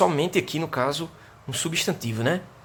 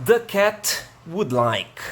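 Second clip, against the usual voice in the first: slow model sentence; 4 semitones higher, 4 dB louder, much slower than usual. Shown as a demonstration. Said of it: "model sentence read for class".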